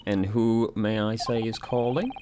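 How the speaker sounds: a lightly voiced housemaid; prim maid voice.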